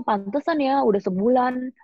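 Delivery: high, hurt lament; a high hurt whine at being left alone; bitter complaint. Retold or imitated. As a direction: complain that nobody came. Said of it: "Aku bilang".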